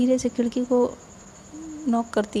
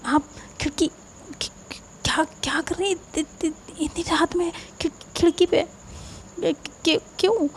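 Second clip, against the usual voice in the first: startled surprise; 6 semitones higher than usual. Acted. Faiz startled at night window.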